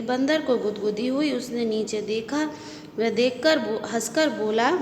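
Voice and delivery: put-on storybook reading for young pupils; reading a story to children. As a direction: read the tale gently to the class. Reads story aloud to class.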